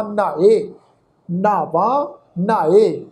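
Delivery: ਨਹਾਏ and ਨਾਵਾ begun with nh; weighted nh opening ਨਹਾਏ and ਨਾਵਾ; half h added. Shown as a demonstration. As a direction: put a breath of h after the n in ਨਹਾਏ, ਨਾਵਾ. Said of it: "ਹਾ ਲਗਾ ਕੇ pronounce ਕਰਨਾ ਵਾ".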